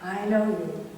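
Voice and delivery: soft, smiling reassurance; gentle God. Retold or imitated. God answering someone who is venting at Him, gently. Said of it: "God sits there and smiles and nods his head".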